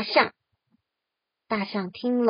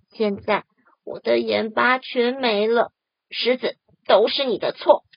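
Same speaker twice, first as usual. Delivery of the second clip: 急着解释; 4 dB louder than usual. Acted. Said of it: "急着解释说".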